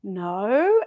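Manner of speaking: "No" with a long, gliding Aussie vowel; Australian "No". Retold or imitated. Imitating the Australian in a funny reel, drawn-out Aussie "No". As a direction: stretch "No" like an Australian. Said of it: "the way Australians say no".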